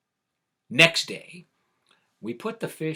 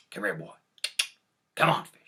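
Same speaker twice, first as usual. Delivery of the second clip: coaxing call, louder on come on fish; 6 dB louder, much faster than usual. Retold or imitated. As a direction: call the fish over gently, then a bit louder. Jack calls the fish over.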